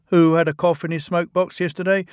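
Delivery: high, fast accusing engine; teasing twin. Acted. Ben teasing Bill about his cough, high and fast. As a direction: needle your brother quickly. Twins quarrelling.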